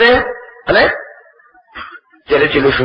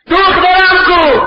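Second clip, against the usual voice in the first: high, drawn-out insistent question; slow, raised-pitch plea for an answer; insistent demand; 11 semitones higher, much slower than usual. Retold or imitated. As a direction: act a father pressing for his daughter. Father asks a third time.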